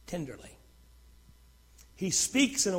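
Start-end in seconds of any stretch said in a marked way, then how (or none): 0.1-0.5 soft, low and tender; lowered voice, softly reassuring. Shown as a demonstration. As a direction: drop gently into a hushed, tender word. Shows God's tender way of speaking.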